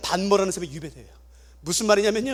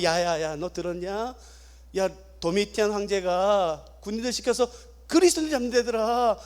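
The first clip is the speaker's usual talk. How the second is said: hushed warning; 2 semitones lower, 6 dB quieter than usual. Retold or imitated. Aged parent whispering warning.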